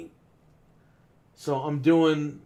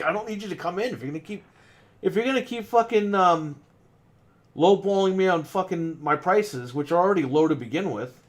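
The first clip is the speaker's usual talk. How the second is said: irritated rant; 3 semitones higher than usual. Retold or imitated. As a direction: rattle off an annoyed brush-off at the lowballers. Retelling his angry reply to customers.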